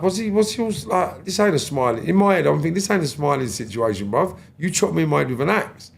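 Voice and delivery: can't believe he's smiling at you; incredulous outrage. Retold or imitated. Inner outrage at smiling attacker.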